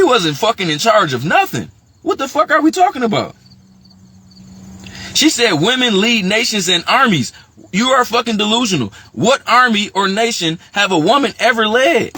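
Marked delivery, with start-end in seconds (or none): 2.0-12.1 really fired up and arguing back hard; excited rant. Real, not acted. Fired up as he argues with the woman's claims about leaders. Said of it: "I don't mean to get excited".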